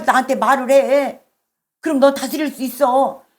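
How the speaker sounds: mildly urgent, imploring appeal; earnest plea. Acted. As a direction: voice God pleading for a confession. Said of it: "우리 주님이 나에게 향한 간절한 외침". (간절하게 타이르는 말투)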